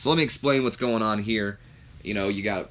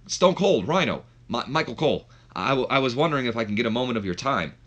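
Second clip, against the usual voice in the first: lightly acted interviewer, pitched up at first; retold interviewer quote, a bit raised; Michael Cole; 3 semitones higher than usual. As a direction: voice an eager approach to a star, mildly. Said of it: "when Michael Cole approaches them".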